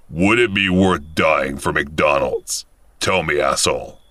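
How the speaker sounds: slow, low menacing question; menacing threat. Retold or imitated. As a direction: drag it out to intimidate. Robber with gun at his head.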